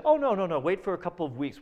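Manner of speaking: emphatic run of reassuring no's; confident dismissal. Retold or imitated. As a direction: quote her waving the objection away. Colleague brushes off his doubt.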